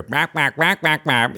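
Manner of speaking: rhythmic imitated barking gibberish; speech heard as a dog. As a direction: imitate human talk as mere noise to a dog. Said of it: "as, as a dog".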